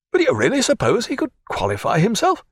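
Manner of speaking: lightly voiced anxious old father; Herapath's voice. A narrator's reading. Herapath asks the doctor's advice, lightly voiced and fretful.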